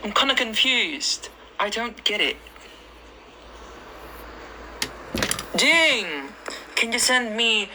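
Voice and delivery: lightly put-on British accent. Shown as a demonstration. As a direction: play at sounding British while chatting with viewers. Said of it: "Do British accent". (kunwaring British accent)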